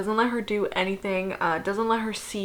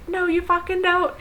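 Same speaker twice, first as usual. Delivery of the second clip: mock angry husband; 9 semitones higher than usual. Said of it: "And Julian's like".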